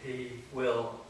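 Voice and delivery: deliberate poetry reading, short phrases set apart by long pauses; poem recitation. Acted. Poet reading of a boy waiting for his mother, measured poem recitation. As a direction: read it as verse, unhurried and measured. Reads own poem to audience.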